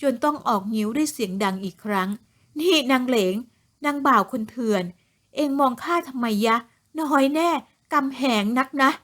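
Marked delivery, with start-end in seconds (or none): 2.3-8.9 loud scolding. Acted. Mistress Jaruay berates the servant girl Leng, loud scolding. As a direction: scold her hard, dragging each word. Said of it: "จะรวยตวาดเสียงดังใส่".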